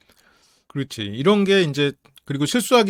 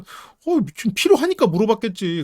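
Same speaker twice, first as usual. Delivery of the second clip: Sherlock Holmes's view; 6 semitones higher than usual. Retold or imitated. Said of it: "셜록 홈즈 입장에서는".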